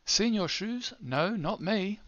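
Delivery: put-on bright read-aloud for children; animated storybook voice. Shown as a demonstration. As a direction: sing out the question. Character line read for app.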